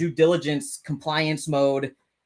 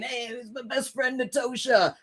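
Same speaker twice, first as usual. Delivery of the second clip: mock D-bag; 8 semitones higher, 4 dB quieter than usual. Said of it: "I probably sounded like quite the D-bag".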